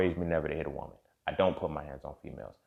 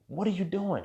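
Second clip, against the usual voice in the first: calling out. Retold or imitated. Mom calling from house.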